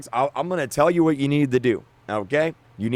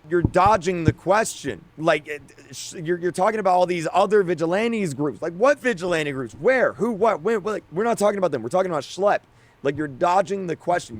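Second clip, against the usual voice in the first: rising, frustrated calling out; frustrated creator calling out Roblox's statement, exasperated; exasperated rant; 4 semitones higher than usual. Real, not acted. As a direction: fire questions at Roblox in disbelief.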